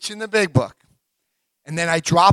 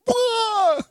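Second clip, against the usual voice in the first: shocked listener. Pretend. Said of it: "They'll be like".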